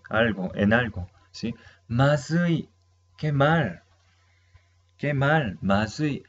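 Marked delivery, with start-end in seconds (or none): 1.9-6.2 light oh no, slightly higher; mock dismay. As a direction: act out a small panic. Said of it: "me acordé algo que yo no he hecho". (un "qué mal" fingido y ligero)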